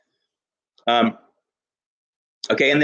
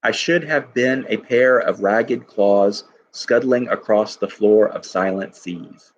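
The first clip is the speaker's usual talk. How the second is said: slow poem reading; 2 semitones lower, slower than usual. Shown as a demonstration. Teacher reads a Prufrock line aloud to class, slow poem reading. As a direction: read the line slowly, weighing each word.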